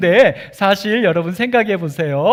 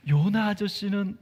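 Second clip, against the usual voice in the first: usual speaking voice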